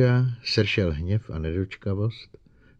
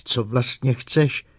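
slow, higher-pitched outcry; more cry than question; exclaimed demand; 5 semitones higher, 4 dB louder, slower than usual. A narrator's reading. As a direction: stretch it out as a raised demand. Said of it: "spíše výkřik".

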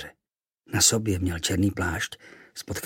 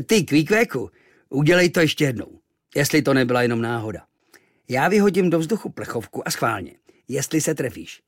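challenging sailor; 4 semitones higher, 4 dB louder than usual. Acted.

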